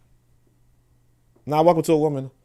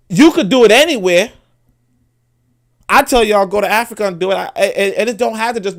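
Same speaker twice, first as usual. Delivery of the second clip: fired-up exhortation; 7 semitones higher, 7 dB louder than usual. Real, not acted. Rallying listeners to build wealth.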